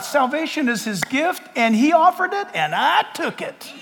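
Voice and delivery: a believer's humble faith, building to a proud finish; sincere testimony. Retold or imitated. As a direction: testify it slowly, heart first, building at the end. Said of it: "the person who's covered in the blood says".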